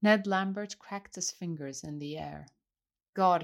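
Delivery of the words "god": cried out. Acted. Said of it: "he cried".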